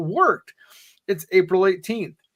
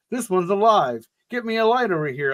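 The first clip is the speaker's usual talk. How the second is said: man yells; 5 semitones higher than usual. Acted. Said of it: "a man yells".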